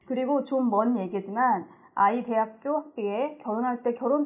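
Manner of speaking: measured, even read-aloud delivery; reading a listener's letter. Acted. Reading a childless-by-choice listener's story to the panel, letter-reading voice. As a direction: read the letter out as its writer, sentence by sentence.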